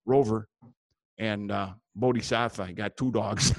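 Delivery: folksy upper-Midwest Wisconsin character; thick Wisconsin up-north accent. Acted. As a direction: ramble like a Wisconsin fishing buddy. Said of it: "I got a guy up there in, uh, Wisconsin".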